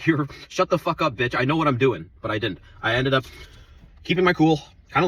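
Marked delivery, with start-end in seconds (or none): 0.1-2.1 angry. Retold or imitated. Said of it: "full on rage".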